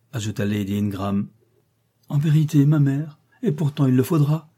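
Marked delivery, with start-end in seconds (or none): 2.1-4.5 higher, louder imperious cry. A narrator's reading. Blanche contradicting her mother, imperious. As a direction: overrule with lightly acted haughty command. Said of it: "s'écria la voix impérieuse de Blanche".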